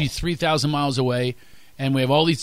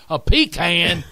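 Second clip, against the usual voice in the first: Texan disbelief; 4 semitones higher, 4 dB louder, slower than usual. Retold or imitated. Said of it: "He goes".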